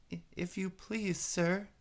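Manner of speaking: high, hushed, hesitant plea; low timid voice. A narrator's reading. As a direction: barely dare to ask, stumbling. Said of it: "in a low, timid voice".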